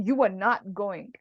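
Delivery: slow, firm refusal of permission; emphatic forbidding. Shown as a demonstration. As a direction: forbid it in measured words. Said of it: "it's more emphatic".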